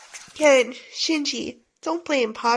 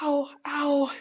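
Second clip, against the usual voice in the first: crying in pain; 2 semitones higher than usual. Acted. Bully runs off hurt.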